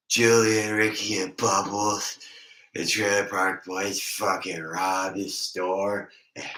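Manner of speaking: put-on a light take on a buzzed guy laughing at old stories; drunk impression. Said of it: "Or I'll go".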